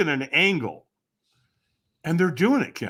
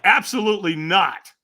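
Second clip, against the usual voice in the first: emphatic, louder flat-out no; firm refusal; 4 semitones higher, 5 dB louder than usual. Retold or imitated. Walker refusing the stranger's invitation, firm refusal. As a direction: refuse point-blank, punching the first word. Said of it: "I said it about that way".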